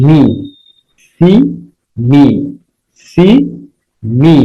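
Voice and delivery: মি and সি said singly, each ending on a clear "ee"; long ee ending. Shown as a demonstration. Teacher showing students that see and me rhyme, long ee ending. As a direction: sound out the shared "ee" in মি and সি, with gaps between. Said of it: "শুধুমাত্র মি তে হিসিকার হচ্ছে".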